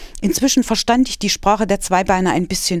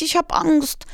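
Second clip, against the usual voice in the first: frightened whisper; 10 semitones higher than usual. Acted. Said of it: "jammerte ich".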